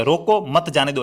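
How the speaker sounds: रोको, short break, मत जाने दो kept together; pause after रोको. Shown as a demonstration. Teacher voicing a cry to stop the thief, break after रोको. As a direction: split the order after रोको. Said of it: "यानी कि चोर है".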